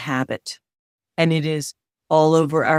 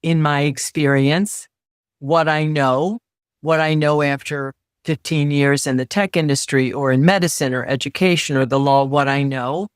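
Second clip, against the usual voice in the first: slow, deliberate. Shown as a demonstration. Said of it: "you could say".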